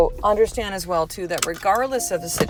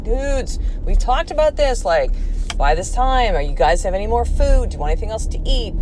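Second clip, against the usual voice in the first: raised-pitch parental pleading, easing down by the end; exasperated parent voice; 5 semitones higher than usual. Retold or imitated. Mom to boys asking for food at bedtime, exasperated high voice. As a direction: voice jumps up high on "Dudes". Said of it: "my voice will do this".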